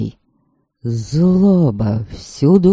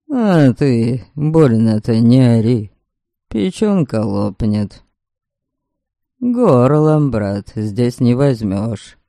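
нахально. Acted. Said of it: "с нахальством сказал ему капитан".

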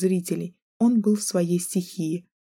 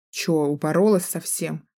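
рычит. Acted. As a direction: growl it like an angry guy. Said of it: "рычит он". (рычит)

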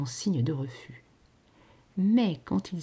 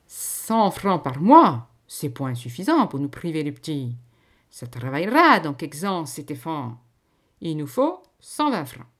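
bargaining farm wife; 7 dB louder than usual. A narrator's reading. Farm wife bargaining with the lady for more money, shrewd. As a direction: haggle it out, drawing out the sum.

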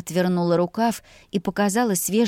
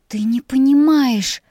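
hissed; 6 semitones higher, 6 dB louder, slower than usual. A narrator's reading. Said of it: "зашипела на него".

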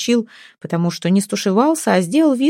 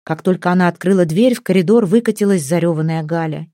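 ordinary delivery, nothing marked

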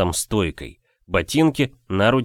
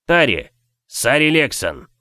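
shout; 4 semitones higher than usual. Acted. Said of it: "крикнул он".

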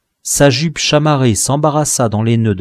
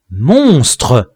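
angry cry; 7 dB louder than usual. Acted. Hero confronts attacking dwarf.

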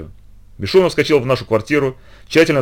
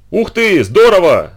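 loud, high whoop of joy; shouting with delight; 7 semitones higher, 5 dB louder, much slower than usual. Acted. Boy shouts over the finished boxing gloves, loud and gleeful. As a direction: yell it at the top of your lungs. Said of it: "заорал он во всё горло".

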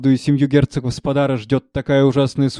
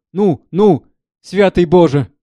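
high, loud gasp of dismay; shocked exclamation; 5 semitones higher, 7 dB louder, slower than usual. Acted. Servant reacts with horror to the scar story, high. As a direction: cry out in shock.

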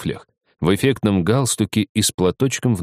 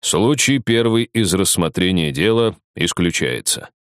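deep velvety voice. Acted. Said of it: "глубокий бархатный голос".

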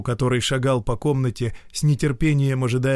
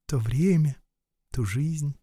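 wistful smile; 4 semitones higher than usual. Acted. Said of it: "с грустной улыбкой произнесла".

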